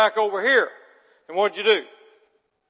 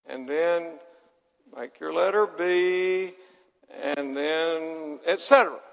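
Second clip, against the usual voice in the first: teacher voice; slower than usual. Retold or imitated. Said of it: "she'd say".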